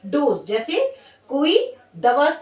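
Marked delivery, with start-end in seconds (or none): 0.1-0.5 slow demo. Shown as a demonstration. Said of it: "और एक डोज का मतलब होता है नींद".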